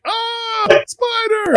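high, childlike mock fright; imitating son's scare. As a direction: squeal it like a little boy spooked by a spider. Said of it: "he's like".

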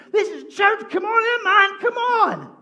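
put-on slow, high and loud, in a dry English accent. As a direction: drawl it like a laid-back English musician. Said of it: "In a really dry English accent".

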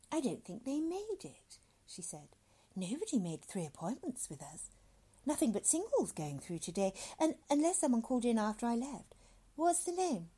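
lightly voiced woman, lilting upward; a hint of a fussy receptionist; businesslike woman clerk. Woman checks appointments for doctor, mildly fussy.

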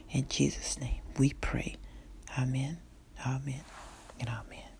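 prayer. Acted. Leads salvation prayer to repeat.

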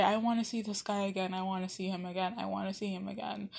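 retold prayer. Praying on the way home to see him again, fading softly. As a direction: murmur the wish, dying away to almost nothing. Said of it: "I always used to pray".

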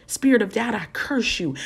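spoken curse on doubt; laying a curse. Pretend. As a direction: cast it down with authority. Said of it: "things that we need to curse".

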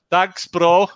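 big, slow Welsh thank-you; Welsh accent. Shown as a demonstration. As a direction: lay on the Welsh accent proudly. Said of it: "that's the best accent ever".

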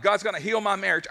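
excited. Acted. Believer answering a doubter about marriage, excited. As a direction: declare it with eager faith. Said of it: "what are you so excited about".

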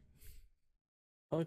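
words through a yawn; slow, stretched through a yawn. Real, not acted. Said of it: "you've been yawning this whole time".

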